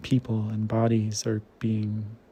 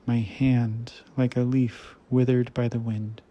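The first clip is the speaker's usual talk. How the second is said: measured poetry recital with pauses between phrases; poem reading. Acted. Reader reciting a translated Romanian poem to listeners, measured poem reading. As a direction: read it as verse, line by line, letting each image rest.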